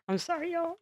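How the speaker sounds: giggled, fast and soft; laughing apology. Real, not acted. Host breaking character to laugh at herself, softly. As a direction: laugh it off quickly.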